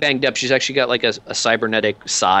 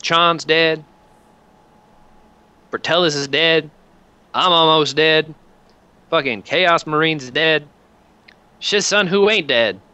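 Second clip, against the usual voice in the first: grim commander; 4 semitones higher than usual. Acted. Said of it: "she goes".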